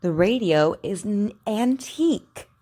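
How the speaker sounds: antique ending on a crisp K; over enunciating. Shown as a demonstration. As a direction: stress the final K in "antique". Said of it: "so you can hear it actually makes a K sound".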